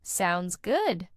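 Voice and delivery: "Sounds good" with a pitch bump on "good"; up-and-down melody. Shown as a demonstration. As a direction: let "good" go up and then down. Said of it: "the voice goes up and down with a little melody".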